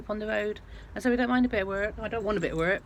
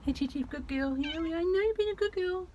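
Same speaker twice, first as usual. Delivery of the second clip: tearful, much higher and softer; choked up; 10 semitones higher, 4 dB quieter than usual. Real, not acted. Emotional owner talking to her dog before the test, tearful. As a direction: fight back the tears while praising her. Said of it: "I'm just so emotional".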